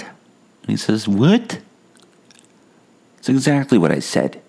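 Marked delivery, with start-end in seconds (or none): 1.1-1.6 mocking echo. Stranger mocks "what?" back.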